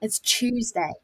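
"Tuesday" starting like "chew"; British "Tuesday", first syllable said as "chew". Shown as a demonstration. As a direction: model "Tuesday" with a ch sound. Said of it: "you've gotta say it like chew".

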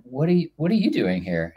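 surprised. Retold or imitated. Running into an Emmy-winning friend at a pitching event, surprised. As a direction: catch him off guard with the question. Surprised to see showrunner there.

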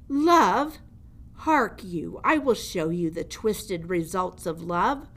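mocking old jailer. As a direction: savour the mouse's claim with scorn. Gregory scorns love.

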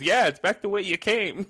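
high Kermit voice breaking into laughter; laughing Kermit line. Retold or imitated. Retelling Kermit's reply while laughing. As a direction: squeak it out through giggles.

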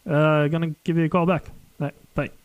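upbeat message left on a phone; voicemail message. Real, not acted.

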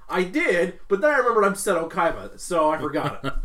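loud, haughty rich rival; arrogant Kaiba. Retold or imitated. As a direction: brag like an untouchable villain. Voicing Seto Kaiba's ego.

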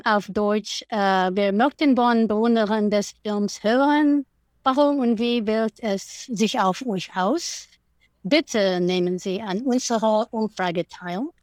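careful German, read as an appeal. Shown as a demonstration. Guest reads the survey appeal to German-speaking fans in German. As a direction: read the request in German, clearly. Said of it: "So there's German".

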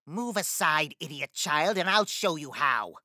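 loud brusque witch; angry witch command; impatient witch. Acted. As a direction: shove her aside with words. Witch pushing past.

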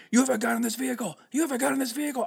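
high, loud insistent accusation; cop yelling. Retold or imitated. Cop accusing driver of having a gun, high yell. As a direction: hammer the accusation at him.

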